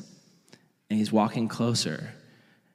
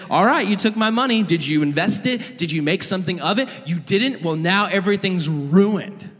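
raised, higher-pitched mock scolding; angry father; 5 semitones higher than usual. Imagined dad confronts his son over the money, angry. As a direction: lay into him as a fed-up dad.

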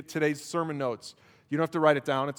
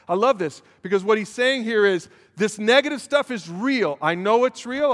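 rising, louder and higher, building conviction; fervent preaching; 5 semitones higher, 5 dB louder than usual. Real, not acted. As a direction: preach it with mounting fire. Pastor preaching with rising force.

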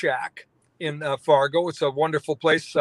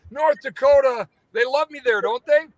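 imitating the president; 9 semitones higher than usual. President asking the host if North Dakota loves him, hammed-up high voice. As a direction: play the president asking to be adored.

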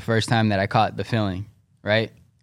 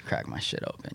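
unvoiced, much softer throwaway line; casual whisper; 13 dB quieter than usual. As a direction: breathe it out like a cool aside. Retelling his answer to classmates.

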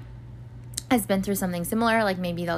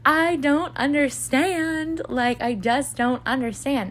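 retold sobbing; 6 semitones higher, slower than usual. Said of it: "sobbing 'cause I'm like".

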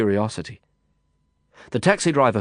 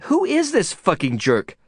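high-pitched, contemptuous snarl; 10 semitones higher than usual. A narrator's reading. Friend demanding who the man is, snarling. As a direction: spit it out as an indignant demand. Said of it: "Lisa snarled".

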